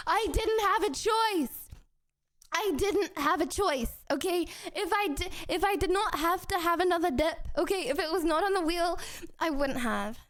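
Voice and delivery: indignant protest. Real, not acted. Streamer defending a second dip to chat, indignant protest. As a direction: protest your innocence, voice pushed up high. Defends eating the hot sauce.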